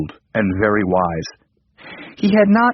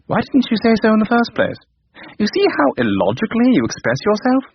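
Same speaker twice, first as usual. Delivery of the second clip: scolding computer; 11 semitones higher, faster than usual. Acted.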